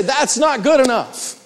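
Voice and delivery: "That's not good enough" high and deliberate; emphatic demonstration. Shown as a demonstration. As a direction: stretch "That's not good enough" as a firm stock reply. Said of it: "you say".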